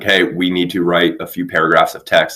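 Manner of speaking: stiff monotone robot voice. Pretend. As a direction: speak like a flat machine. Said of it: "That's my robot voice".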